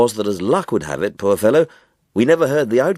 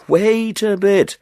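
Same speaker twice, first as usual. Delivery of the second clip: Sullivan interrupting; 13 semitones higher, 3 dB louder, much slower than usual. A narrator's reading.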